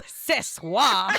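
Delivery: giggling mock French line; laughing through mock French. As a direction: say it while cracking up. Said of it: "say something in French".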